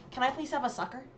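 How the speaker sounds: hammed-up polite question; mock request. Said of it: "Not a sucker. Like, what?".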